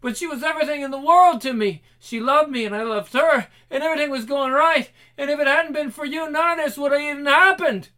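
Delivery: high, loud raging accusation; furious grief. Acted. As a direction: scream out rage and grief. Grieving man berates killer.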